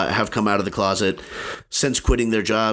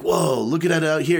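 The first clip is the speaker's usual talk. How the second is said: slightly raised, exaggerated wonder; mock amazement; 5 semitones higher than usual. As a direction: imitate an awed newcomer, a little higher. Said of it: "He didn't say it that way".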